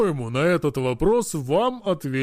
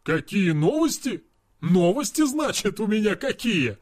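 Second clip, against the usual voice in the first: incredulous; 3 semitones higher than usual. Acted. Friend echoing the hero's question in disbelief. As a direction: throw his words back in mock disbelief.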